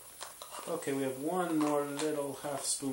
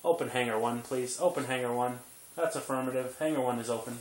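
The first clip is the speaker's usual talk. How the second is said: playful air traffic call; radio chatter to the tower; pilot radio voice. Pretend. Pilot radio talk to baby.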